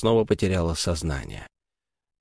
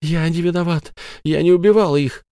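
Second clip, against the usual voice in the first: higher, rushing protest; desperate denial; 8 semitones higher than usual. Acted. Sara frantically denies killing the children. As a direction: plead innocence in panic.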